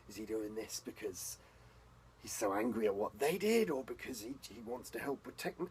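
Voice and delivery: flounder for words, then fire off anxious questions; acted confusion, tripping over words as it builds; bewildered questioning. Character acts out bewildered inner questioning.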